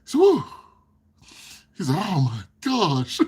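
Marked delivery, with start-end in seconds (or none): 0.2-0.4 high, loud "whoo"; imitated excited whoop. Imitating son's joy at the car starting, excited whoop. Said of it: "He gets so excited". 2.0-3.2 slow, drawn-out mock amazement; imitated amazement. Imitating son after the car started, stretched-out amazement. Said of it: "He gets so excited".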